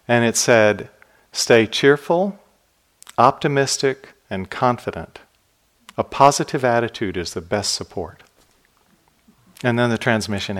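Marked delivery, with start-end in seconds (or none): 1.3-8.2 measured, lifted phrases with a hint of an Indian accent; Dalai Lama. Monk relaying the Dalai Lama's advice, light Indian accent. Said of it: "Indian accented English that he has".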